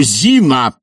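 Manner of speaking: high, loud call; shouted summons. Acted. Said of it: "кричал Барменталь".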